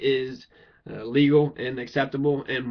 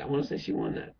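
soft whispered repeat; 5 dB quieter, faster than usual. Real, not acted. Repeating the court case verdict to himself, whispered. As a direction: breathe it out as a private aside.

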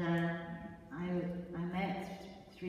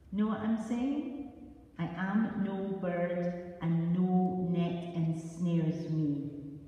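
voice from centuries past; 6 dB louder, slower than usual. Acted. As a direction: intone it like an old voice across centuries. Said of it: "she said in a voice come down from century".

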